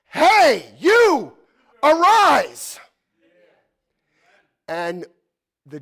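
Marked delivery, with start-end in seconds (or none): 0.0-2.8 much higher, much louder call to wake the dead; full-voiced shout of command. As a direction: bellow it like a summons from heaven. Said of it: "He's gonna shout".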